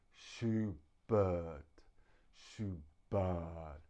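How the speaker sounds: Schubert with a weak uh in the last syllable; schwa in Schubert. Shown as a demonstration. Teacher showing the class the schwa in Schubert. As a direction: swallow the second vowel of Schubert. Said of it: "We make that sound in the throat".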